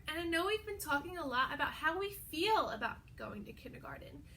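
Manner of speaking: quick hushed whisper; teacher whispering to her pupils. Shown as a demonstration. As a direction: lean in and whisper it fast. Whispered aside to the kids.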